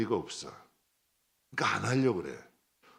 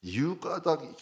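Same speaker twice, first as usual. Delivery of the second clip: ordinary talk, nothing marked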